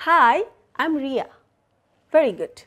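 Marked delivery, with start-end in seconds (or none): 0.1-1.3 "Hi, I'm Ria" said with a falling tune; teacher's model line, "Ria" falling; falling intonation. Shown as a demonstration. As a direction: bring the pitch down on "Ria". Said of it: "falling intonation".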